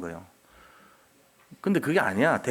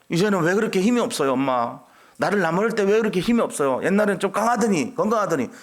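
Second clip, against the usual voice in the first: put-on grown child teasing; 6 semitones higher, 3 dB louder than usual. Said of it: "이 정도가 돼야 돼, 자녀가".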